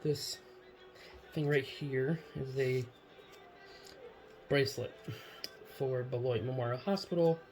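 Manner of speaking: talking while chewing gum. Real, not acted. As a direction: speak around a wad of gum. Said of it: "started chewing gum right before the video".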